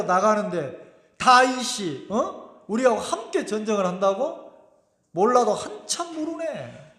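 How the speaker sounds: angry outburst. Retold or imitated. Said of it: "막 화를 버럭 내는 거예요".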